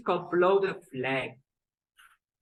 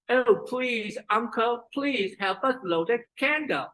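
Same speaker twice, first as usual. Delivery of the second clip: high pleading little brother; chin forward; 5 semitones higher than usual. Acted. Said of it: "the chin is forward".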